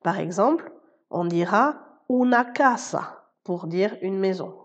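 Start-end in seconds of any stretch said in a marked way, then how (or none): 2.1-3.2 "casa" stressed on its first syllable, CA-sa; stress on next-to-last syllable. Shown as a demonstration. Spanish teacher shows learners where the accent falls, CA stressed in "casa". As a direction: lean on the CA of "casa". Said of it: "l'accent tonique tombe sur l'avant-dernière syllabe".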